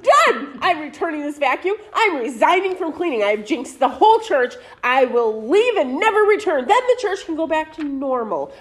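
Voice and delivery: overwrought melodramatic rant; dramatic. Acted. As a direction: play the tragic martyr. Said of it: "let me be dramatic".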